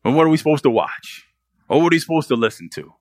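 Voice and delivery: quick indignant imitation of the listener; mock objection. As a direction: play the defensive churchgoer. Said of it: "I know you're probably thinking".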